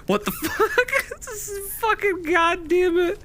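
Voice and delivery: high, laughing through the quote. Retold or imitated. Streamer retelling his reaction, laughing high. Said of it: "I was like".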